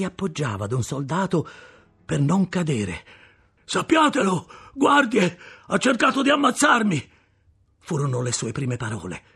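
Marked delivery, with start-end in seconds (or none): 3.6-7.1 high, loud appeal to the guards; bruised convict shouting to the guards; desperate accusation. Acted. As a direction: cry out that he tried to kill you.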